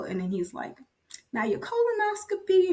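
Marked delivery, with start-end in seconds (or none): 1.3-2.7 higher, weighty turn; ominous doctor. Retold or imitated. Doctor shifts to the colonoscopy findings, higher and weighty. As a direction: set up the bad news. Doctor turns to bad news.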